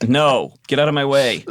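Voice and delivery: mildly hammed-up annoyance; retold irritation. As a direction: act out shooing your wife away. Retelling snapping at his wife.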